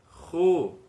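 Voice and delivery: Bo said loud and clear; syllable demo. Shown as a demonstration. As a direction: call out Bo. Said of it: "Se tivesse um re".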